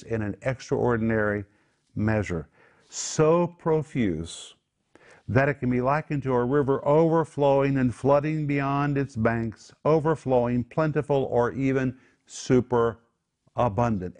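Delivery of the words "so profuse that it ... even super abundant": raised, emphatic preaching pitch; building exuberance. Real, not acted. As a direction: pile it up like a flood, voice riding high. Preacher piles up synonyms for abundance.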